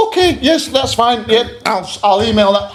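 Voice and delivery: high, sarcastic meek agreement; mock meek compliance. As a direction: play the pushover mockingly. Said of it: "expect me to just go".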